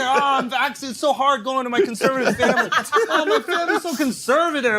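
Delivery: teasing woe-is-me imitation; mock victim. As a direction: play up the self-pity to ridicule him. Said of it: "with your victim culture".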